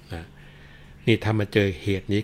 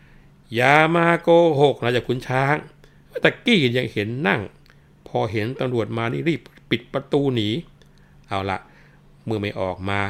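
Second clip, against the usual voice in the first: mocking policeman; 3 semitones higher, 4 dB louder than usual. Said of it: "ตำรวจก็ร้องบอกว่า".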